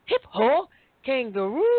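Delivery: put-on high little-boy voice listing animals; toddler naming animals. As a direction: chirp the animal names like a small child. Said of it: "you gotta hear him when he say these animals".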